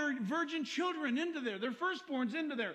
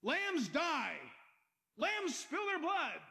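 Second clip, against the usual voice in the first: baffled objection; slower than usual. Acted. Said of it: "People said".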